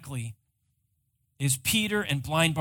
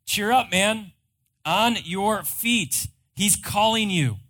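raised, higher crowd call; 4 semitones higher, 5 dB louder than usual. Acted. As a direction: call over to him, louder and higher. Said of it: "they called to the blind man".

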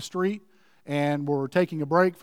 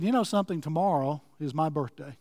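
a touch of wistful sadness, trailing softer; mournful, wistful; 3 dB quieter than usual. Retold or imitated. Woman telling her friend about her birthday, mildly mournful, wistful. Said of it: "In a mournful, wistful voice".

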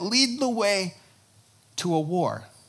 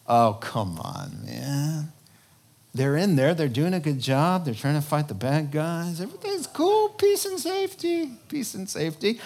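mock carefree unbeliever. Voicing careless unbelievers.

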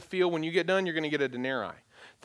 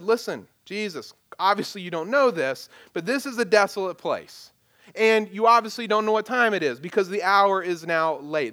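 patronizing; 3 dB louder than usual. Retold or imitated. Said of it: "They are so patronizing to him".

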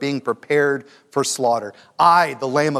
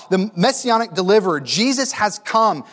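crowd crying out; 5 semitones higher, 3 dB louder than usual. Retold or imitated. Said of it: "they're crying out".

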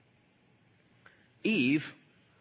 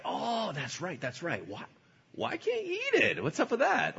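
high laughing sly question; hammed-up tempting snake with a laugh; mock-curious snake; 10 semitones higher than usual. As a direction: play dumb, teasing her.

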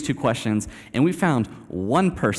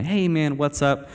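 begrudging greeting; 4 semitones higher, slower than usual. Retold or imitated. Speaker greets a stranger at the Spirit's urging, begrudgingly. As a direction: give in reluctantly and greet him.

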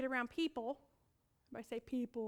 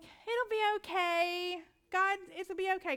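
slow reassuring; 5 semitones higher, slower than usual. Retold or imitated. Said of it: "I would just smile at them".

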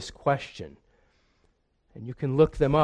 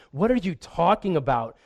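indignant retort; 3 semitones higher than usual. Pretend. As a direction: throw his words back at him, building to a peak then cooling. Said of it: "turned around and said".

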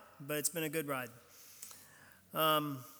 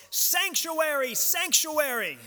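high, loud, drawn-out cry; slow acted yell, pitch falling on each word; imitated yell; 9 semitones higher, 5 dB louder, slower than usual. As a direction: call it out dramatically like Quasimodo claiming refuge. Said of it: "and he yells".

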